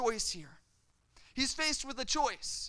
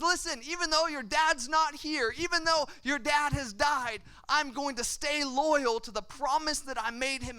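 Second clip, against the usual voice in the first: louder, higher, insistent promise; emphatic pledge; 5 semitones higher, 4 dB louder than usual. Acted. King pledging loyalty to his dead friend's son, emphatic. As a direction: drive the vow home with raised voice.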